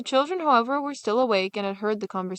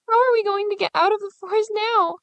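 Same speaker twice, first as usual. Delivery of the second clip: high, louder tearful wail; a lost little girl crying; 12 semitones higher, 5 dB louder than usual. Acted. Gretel crying in the dark forest, high and tearful. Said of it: "Gretel began to cry".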